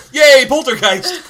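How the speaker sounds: high, loud little cheer; gleeful, laughing yay; mock cheer. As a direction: cheer it like a delighted movie watcher. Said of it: "we're just like".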